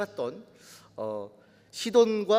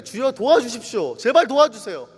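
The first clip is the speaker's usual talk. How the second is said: urgent plea, louder toward the end; pleading; 3 semitones higher, 6 dB louder than usual. Acted. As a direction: beg for help as the desperate woman. Acting the woman begging for help. (간절하게 도움을 청하는 말투)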